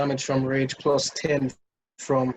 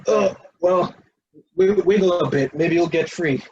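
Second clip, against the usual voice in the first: loud, higher, sing-song taunting creature; mocking taunt voice; 4 semitones higher, 7 dB louder than usual. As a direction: taunt like a smug little monster. Mocking the tiny scorpion's taunt.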